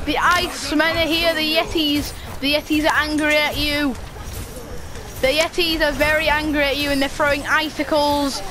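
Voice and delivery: lightly hammed-up yeti herald; mock announcer. Warning someone that the Yetis are angry, mock announcer. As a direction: proclaim the attack with playful drama.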